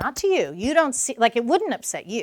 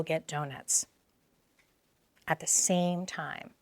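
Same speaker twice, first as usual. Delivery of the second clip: calm validating dad. Shown as a demonstration. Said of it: "He says".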